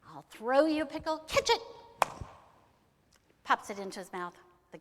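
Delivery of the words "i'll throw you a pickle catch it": higher, loud call with a punchy end. Acted. Man throws goblin a pickle, loud high call. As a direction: call it out, rising to a shout.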